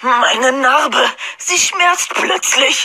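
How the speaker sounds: langsam, hoch, leidend; gequält. Acted. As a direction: dramatisch vor Schmerz. Harry mit Narbenschmerz. (gespielt leidend)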